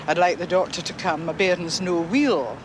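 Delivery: lightly voiced Edinburgh Scots; a hint of everyday Scots dialect; broad Scots caller. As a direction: imitate a Scots-speaking neighbour, drawing out the last words. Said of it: "a woman living perhaps just a door or two down".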